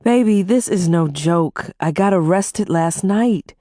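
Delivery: mild whimper, slowed; small pleading voice. Acted. Wife admitting her arrest to her husband, whimpering. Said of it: "I whimpered".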